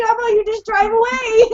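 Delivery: high, exasperated suggestion; frantic mock-exasperated urging; retold urgent plea. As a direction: act out begging the driver to go. Retelling her urgent plea to driver.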